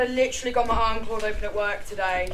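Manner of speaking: loud, fast, fed-up snap; exasperated. Acted. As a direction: push back hard at her sister. Sisters quarrel.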